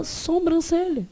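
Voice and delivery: "sobrancelha" with an added nasal, som-bran-celha; popular mispronunciation. Shown as a demonstration. Teacher quoting how people say it, popular mispronunciation. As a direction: say "sobrancelha" as "sombrancelha". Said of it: "o povo fala".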